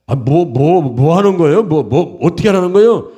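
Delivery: mildly exasperated questioning; stuttered, insistent mock impatience; impatient customer. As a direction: play a customer pressing a fumbling seller. Customer impatient with stammering seller.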